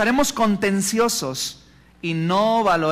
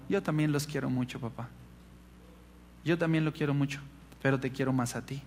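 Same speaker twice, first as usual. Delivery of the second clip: soft, lower, gently affectionate; retold tender child; 3 semitones lower, 10 dB quieter than usual. Son telling father he loves him, quiet tenderness. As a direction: confide it softly, as a loving child. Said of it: "Y él dijo".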